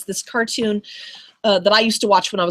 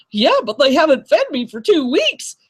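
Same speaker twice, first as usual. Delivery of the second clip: lion voice; 4 semitones higher than usual. Retold or imitated. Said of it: "the lion's like".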